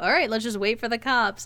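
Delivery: normal talking voice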